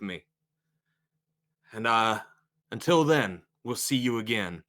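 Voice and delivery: lightly orated, measured thanks; preacher's farewell. Acted. Preacher thanking attendees after the chant, measured oratory. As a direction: close the service with a gracious invitation.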